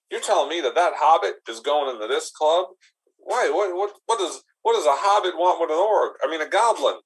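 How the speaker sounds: high, incredulous questions; baffled goblin. Acted. Goblin quizzing the bouncer about the hobbit, high incredulity. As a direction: pitch up in disbelief.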